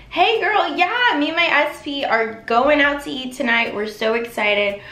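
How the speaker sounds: pretend phone call. Shown as a demonstration. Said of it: "you're talking to your best friend".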